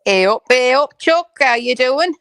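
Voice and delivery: high, loud Northern hey up; excited greeting. Real, not acted. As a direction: greet a friend with delight. Echoing friend's Lancashire greeting.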